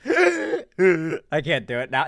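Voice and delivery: wheezing accordion-like laugh attempt; a faked wheezy accordion laugh. Shown as a demonstration. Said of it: "let me do my best accordion laugh".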